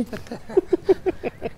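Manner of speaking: high, breathy giggling; quiet high wheezing laugh; laughter. Real, not acted. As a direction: crack up at your own joke. Laughing at own crude joke.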